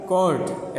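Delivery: teacher modelling कोर्ट with a crisp retroflex ending; model pronunciation. Shown as a demonstration. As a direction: spell out कोर्ट as "kort", ending on a hard retroflex ट. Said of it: "ऐसा बोला जाएगा".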